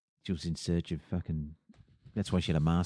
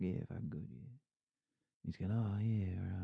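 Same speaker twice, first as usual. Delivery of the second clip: much softer, swallowed mumble; imitated mumbling; 11 dB quieter, slower than usual. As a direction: mumble it barely audibly. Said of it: "he just started mumbling".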